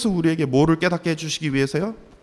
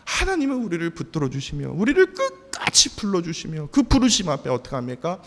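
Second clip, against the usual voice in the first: usual speaking voice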